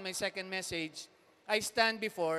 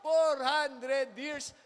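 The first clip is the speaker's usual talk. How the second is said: much higher and louder, slow shouting; preacher shouting about four hundred years; fiery preaching; 7 semitones higher, 7 dB louder, much slower than usual. Acted. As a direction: thunder it at the congregation. Preaching at full force.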